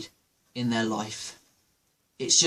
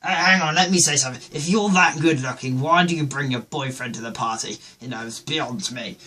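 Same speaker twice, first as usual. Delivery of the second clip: mock-posh English protest, fading at the end; lightly put-on posh indignation; posh accent. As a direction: imitate an upper-class telling-off. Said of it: "still talking poshly".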